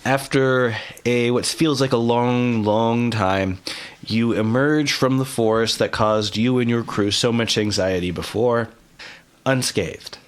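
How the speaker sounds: measured scene-setting with suspenseful pauses; game master narration. Acted. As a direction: narrate the journey deliberately, holding back the last word.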